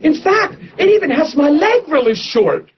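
high, tearful and eager, voice catching; excited tearful reply. Retold or imitated. Woman in the front row answering the preacher, high and tearful. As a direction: retell her near-tearful eagerness to be healed. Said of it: "She said".

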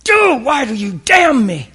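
high, loud, slow whiny accusation; mocking complainer. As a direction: play a sulky man blaming God. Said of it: "What you're saying is".

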